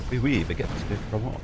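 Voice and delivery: quick, hammy fake French accent; mock French accent. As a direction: toss off a jokey French accent, barely put on. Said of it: "speak with a French accent back".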